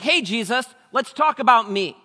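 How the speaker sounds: high, loud, breezy self-centred ask; self-absorbed ruler. Retold or imitated. The young ruler turning the talk to himself before Jesus, high and breezy. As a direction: make it all about yourself. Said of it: "he's like".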